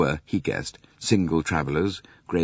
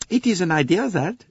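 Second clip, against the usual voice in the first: Poirot voice; 13 semitones higher, 4 dB louder than usual. Acted. Poirot replies, high voice.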